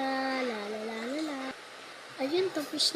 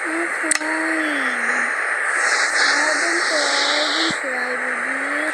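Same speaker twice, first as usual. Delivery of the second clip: put-on loud, slow cooing to a baby; drawn-out pretend comforting; pretend soothing mother; 6 dB louder, much slower than usual. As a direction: play a mum hushing a crying baby, drawn out. Mother soothing a crying baby in play.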